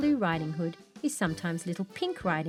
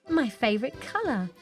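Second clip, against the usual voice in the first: excited, higher-pitched exclamation; delighted; 4 semitones higher than usual. Acted. Girl sees her new pink cape, delighted.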